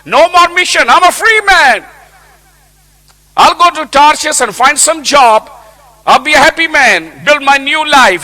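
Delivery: a hint of a cocky runaway prophet; carefree Jonah. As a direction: Jonah shrugging off God, pleased with himself. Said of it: "He says".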